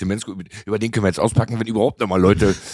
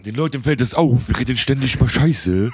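Palatinate dialect. Pretend. Rappen in Kurpfälzisch, tests the dialect.

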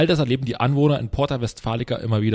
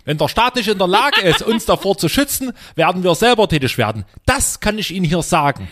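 angry resident; 5 semitones higher, 4 dB louder than usual. Acted. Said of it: "ich spreche quasi den Anwohner".

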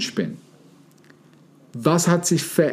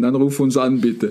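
laughing through the words; 3 semitones lower than usual. Real, not acted. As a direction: say it while still laughing. Joking after the punchline.

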